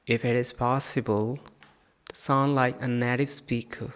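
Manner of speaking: slow, careful model reading; teacher reads the paragraph slowly; slow practice reading. Shown as a demonstration. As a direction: read each phrase slowly for learners to copy. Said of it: "let's have practice of this paragraph".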